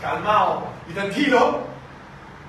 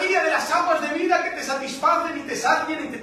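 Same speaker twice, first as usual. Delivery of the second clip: God's invitation; 6 semitones higher than usual. Pretend. Preacher voicing God inviting the sinner, raised and fervent. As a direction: call them lovingly to rest.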